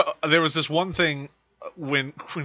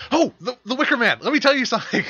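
mock Christopher Lee; 9 semitones higher, 3 dB louder than usual. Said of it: "he would be like".

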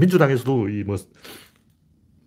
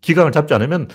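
indignant questioning; 4 semitones higher than usual. Real, not acted. Angrily questions why nobody knew.

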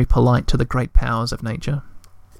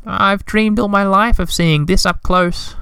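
slow, higher, wistful little voice; slow, higher, sighing Woody; 6 semitones higher, slower than usual. A narrator's reading. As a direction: breathe it out with longing. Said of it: "with a sigh".

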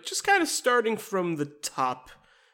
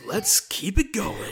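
slow mock cheer; 5 semitones higher, slower than usual. Mock upbeat after bleak joke.

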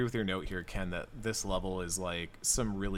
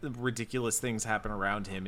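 ordinary talk, nothing marked

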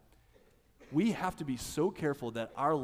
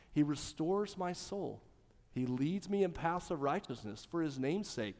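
scripture recitation; 4 dB quieter than usual. Acted. Reciting Psalm 23.

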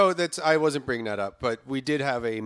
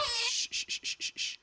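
soothing shush; 8 dB quieter than usual. Acted. Hushing the crying baby.

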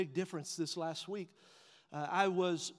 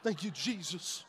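quiet relief; 3 semitones lower, 5 dB quieter than usual. Retold or imitated. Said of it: "I'm like".

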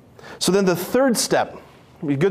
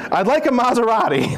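mock request, laughing; 5 semitones higher than usual. Mock blind man request.

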